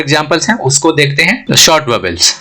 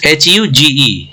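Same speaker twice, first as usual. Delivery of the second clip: slow spelling; slower than usual. Shown as a demonstration. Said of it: "spelling out letters".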